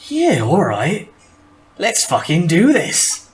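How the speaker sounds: gruff Nord fighter. Acted. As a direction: drawl it like a cocky brute.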